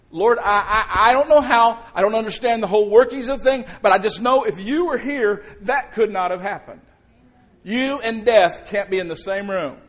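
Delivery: loud, fervent outpouring of belief; Martha's heartfelt declaration, loud and fervent; passionate faith. Retold or imitated. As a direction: plead it with bold conviction. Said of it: "Are you getting what she's saying".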